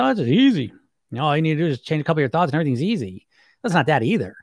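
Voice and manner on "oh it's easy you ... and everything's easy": mock breezy optimism. Coach mocking a glib promise, breezy and fast. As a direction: rattle it off like a glib guru. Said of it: "go the opposite direction".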